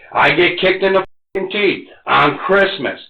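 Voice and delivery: real sob through the words; choked, tearful complaint; crying. Real, not acted. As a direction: voice breaking into tears, slowing down. Breaking down over lost family.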